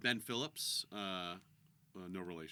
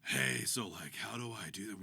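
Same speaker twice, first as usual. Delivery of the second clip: Jared Green; 2 semitones lower than usual. Acted. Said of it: "Jared Green comes over and he's like".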